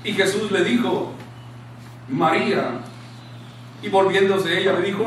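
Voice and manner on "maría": low, gentle calling of a name; quiet, intimate address; special tender tone. Retold or imitated. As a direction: say the name softly and low, with care. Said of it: "tiene un tono especial".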